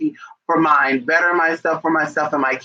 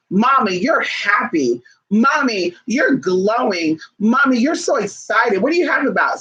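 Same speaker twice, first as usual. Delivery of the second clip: lightly voiced child, slow and a bit higher; imitating a child; 5 semitones higher than usual. Child noticing mom's joy, lightly voiced curious kid. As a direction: wonder aloud like a small kid.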